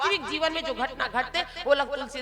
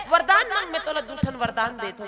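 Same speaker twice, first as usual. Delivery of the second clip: king's loud command; 2 semitones higher, 4 dB louder than usual. Acted. King Dasharatha grants boons.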